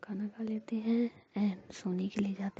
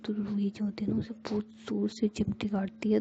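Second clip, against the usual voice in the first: plain reading voice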